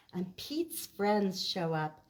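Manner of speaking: lively picture-book read-aloud; reading to children. A narrator's reading. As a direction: read it to a circle of kids. Storytime narration.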